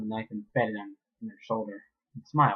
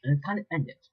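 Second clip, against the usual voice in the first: cold threat; 4 semitones higher than usual. Acted. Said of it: "the mayor said coldly".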